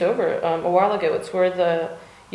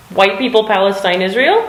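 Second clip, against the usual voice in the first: joking to husband; 6 dB louder than usual. Retold or imitated. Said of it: "I joked to my husband".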